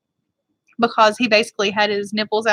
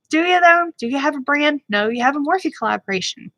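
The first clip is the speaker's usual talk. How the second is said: sarcastic retort; 4 semitones higher than usual. Retold or imitated. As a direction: throw it back with sarcasm. Mocking retort to James's tweet.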